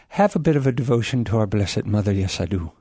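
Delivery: put-on light, slightly muddled Irish accent. Guest professing his devotion to the Blessed Mother, in a mock Irish accent. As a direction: lilt it lightly like an Irish speaker. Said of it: "in an Irish accent".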